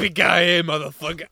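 cowboy twang. Retold or imitated. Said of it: "talking in a Western accent".

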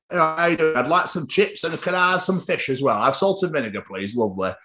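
lightly put-on Yorkshire accent; casual imitation of a Yorkshire accent. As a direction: order chips in a mock Yorkshire accent. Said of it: "he's Yorkshire for, for no reason whatsoever".

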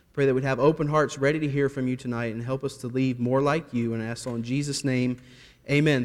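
soft, earnest prayer voice; soft, hushed pastor's prayer. Real, not acted. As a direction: pray quietly before the sermon. Leads the congregation in prayer.

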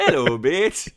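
teasing put-on accent, belted out; mocking a botched British accent. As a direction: mimic their bad Yorkshire-ish hello. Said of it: "sound like you smoked a lot of drugs".

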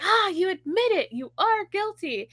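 a hint of a triumphant villain catching him out; gloating judge. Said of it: "And the guy's like".

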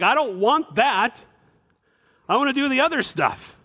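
voicing the flesh. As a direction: speak as your own flesh refusing God's way. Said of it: "your flesh is like".

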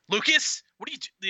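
put-on stern dad calling out a kid's name; firm parent voice, name called high. Shown as a demonstration. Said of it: "an example of your dad voice".

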